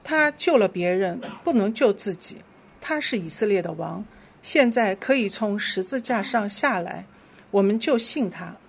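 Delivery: measured, clearly phrased Bible reading; scripture reading. Real, not acted. Leader reads Scripture to the congregation, measured scripture reading. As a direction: lead the congregation through the verse.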